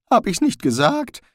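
urgent shouting. A narrator's reading. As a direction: yell at him to run. Rincewind yells at Zweiblum.

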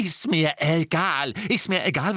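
high, insistent repetition; angry dismissal. A narrator's reading. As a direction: cut him off hotly. Hermine cuts Harry off furiously.

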